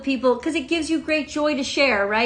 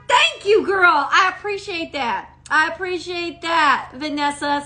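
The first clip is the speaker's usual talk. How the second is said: high-pitched, delighted thanks; real grateful excitement; 4 semitones higher than usual. Real, not acted. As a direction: gush thanks to a helpful friend. Thanking viewer who supplied forgotten name.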